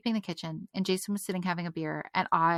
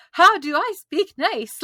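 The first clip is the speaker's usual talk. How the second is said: laughing disbelief; 10 semitones higher, 10 dB louder, slower than usual. Retold or imitated. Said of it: "So I was like".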